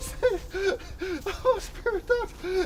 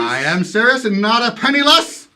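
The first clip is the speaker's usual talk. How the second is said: hearty generosity; 5 semitones lower, 6 dB louder than usual. Acted. Scrooge's generous insistence.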